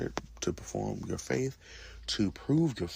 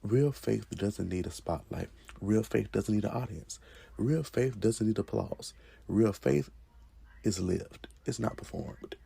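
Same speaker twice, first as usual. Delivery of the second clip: fervent preaching; 5 dB louder than usual. Real, not acted. Preaching climax.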